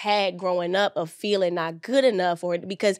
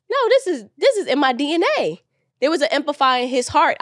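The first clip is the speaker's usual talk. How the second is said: fervent insistence; 6 semitones higher, 4 dB louder, faster than usual. Real, not acted. Insisting her drive comes from dad.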